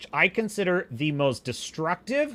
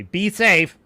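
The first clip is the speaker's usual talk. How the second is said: mocking well-wish; 6 dB louder than usual. Mimicking the modern farewell he hates, mocking. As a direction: parrot it with distaste. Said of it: "the modern way we say this".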